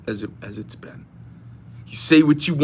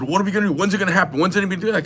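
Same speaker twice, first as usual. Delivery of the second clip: higher-pitched string of impatient questions; retold railing; 4 semitones higher, much faster than usual. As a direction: imitate a worked-up friend railing. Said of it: "he was railing on all this".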